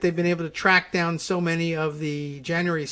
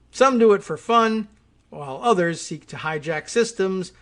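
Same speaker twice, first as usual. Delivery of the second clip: projected, deliberate read-aloud delivery; emphatic informational reading; news article read; 4 dB louder than usual. Acted. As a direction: read it out as article copy, names spaced carefully.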